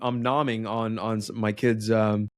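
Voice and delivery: talking while chewing candy; chewing between words; mouth full. Real, not acted. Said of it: "I apologize if you can hear me chewing".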